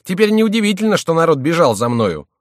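high, loud outrage easing at the end; exasperated, high-pitched outburst; indignant cry. A narrator's reading. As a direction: burst out cursing, then settle. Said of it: "вскричал он".

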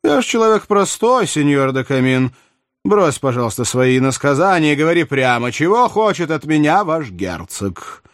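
a hint of royal impatience; impatient king. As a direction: demand straight talk from the courtier. Narrator voices King Louis.

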